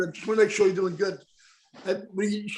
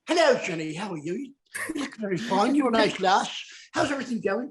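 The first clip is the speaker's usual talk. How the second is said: put-on English accent, drifting Irish; attempted English accent. Shown as a demonstration. Host demonstrating English accent for the fans, hammed-up English. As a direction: greet her in an amateur English accent. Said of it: "you wanna hear my English accent?".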